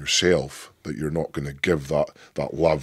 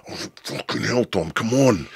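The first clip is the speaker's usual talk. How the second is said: pumped-up shout; 6 semitones higher than usual. Retold or imitated. Geeing up brother backstage.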